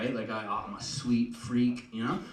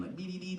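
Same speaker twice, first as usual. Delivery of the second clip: high, soft sing-song whimper; mocking "dee dee dee" sob; mock crying noise; 8 semitones higher, 8 dB quieter, faster than usual. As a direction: imitate a childish little cry. Mimes crying he claims not doing.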